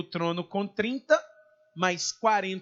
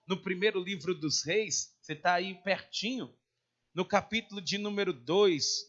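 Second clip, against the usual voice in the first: ordinary talk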